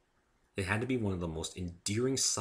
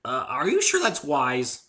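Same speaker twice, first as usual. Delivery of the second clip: slow, higher, louder wary question; doubtful hesitation, drawn out; warily asking if it's wise; 7 semitones higher, 8 dB louder, slower than usual. A narrator's reading. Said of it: "I asked warily".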